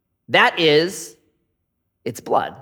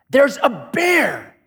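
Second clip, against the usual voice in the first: mock fear; 8 semitones higher, much slower than usual. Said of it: "I'm like".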